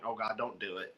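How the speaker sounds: low-volume cringing plea; quiet aside of secondhand embarrassment; muted dread. Retold or imitated. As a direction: say it under your voice, dreading what comes next. Reenacts his dread while watching.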